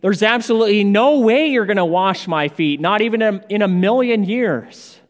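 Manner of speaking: emphatic refusal. Retold or imitated. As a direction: insist there's no way at all. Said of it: "it's almost as Peter is saying".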